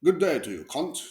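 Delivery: a lightly put-on Australian "good day"; mock Australian accent. Vlogger greeting Australians in a mock Australian accent. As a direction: toss off a half-hearted Aussie greeting. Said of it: "I think that's Australian accent".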